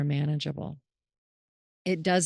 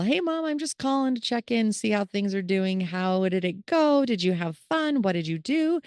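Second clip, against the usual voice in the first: lightly acted chatty phone call to Mom; check-in call; 4 semitones higher, 3 dB louder than usual. Daughter calling Mom to check in, lightly acted chatty voice. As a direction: open higher, an easy run of friendly questions.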